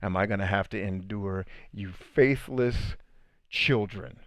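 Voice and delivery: slow, tired lament, lightly voiced; frustrated Jesus. Jesus fed up with his faithless followers, slow and weary. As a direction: drag the words out in weary frustration. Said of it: "Jesus is at the point of frustration".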